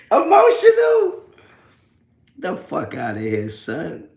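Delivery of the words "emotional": high, slow mocking shout. Real, not acted. Jeering at an upset troll, high slow shout. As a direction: stretch it out, jeering.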